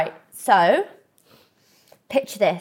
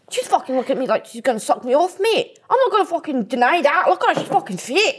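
mock Scottish accent; 2 semitones higher than usual.

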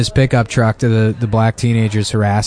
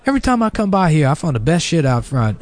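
put-on old lady; 3 semitones higher, 3 dB quieter than usual. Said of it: "this, like, old lady walks by".

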